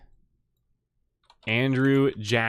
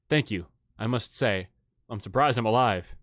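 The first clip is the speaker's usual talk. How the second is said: low, mildly weakened voice; a touch of frailty, pitched low; weak; 3 semitones lower than usual. Acted. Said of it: "smiles weakly and says".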